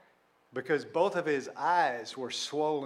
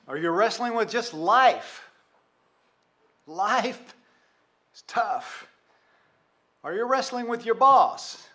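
building sermon questions; 7 semitones higher, 6 dB louder than usual. Real, not acted. Rising preacher's questions.

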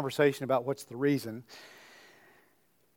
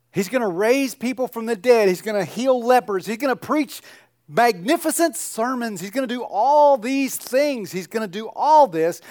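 higher, louder, rising through the list; building excitement; 7 semitones higher, 4 dB louder than usual. Real, not acted. Preacher building up the congregation, higher and louder. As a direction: preach it up, each line bigger.

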